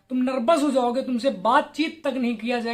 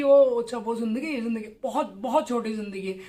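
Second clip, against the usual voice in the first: lower, trailing mock of a careless kid; mock dismissive quote; 3 semitones lower than usual. Mocking the viewer who sees life from far off, dismissive. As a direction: toss it off like someone not really looking at life. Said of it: "दूर से कि".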